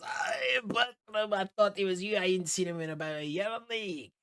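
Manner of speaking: put-on greeting an old friend at full volume; drunken excited shout. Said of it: "falls on his ass and goes".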